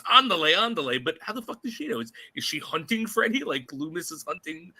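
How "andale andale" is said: imitating the mother. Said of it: "her version of get your ass out".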